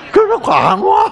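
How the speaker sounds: high, loud laughing punchline; delivering the punchline in a laughing shout. Real, not acted. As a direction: burst out laughing as you shout it. Punchline about Chungcheong people.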